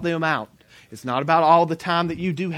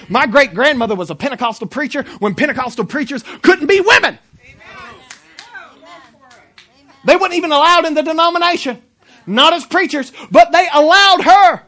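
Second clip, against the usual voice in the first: raised, building sermon cry; full-force preaching; 8 semitones higher, 8 dB louder than usual. Real, not acted. Preacher telling of his pioneering great-grandmother, impassioned preaching. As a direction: build to a loud, high punch.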